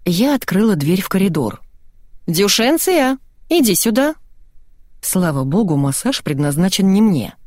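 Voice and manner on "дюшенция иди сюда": calling out. A narrator's reading. Narrator calls the dog.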